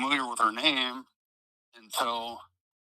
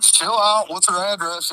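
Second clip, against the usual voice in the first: retold urging; 7 semitones higher, 5 dB louder than usual. Retold urging her to calm down.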